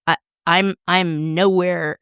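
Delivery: usual speaking voice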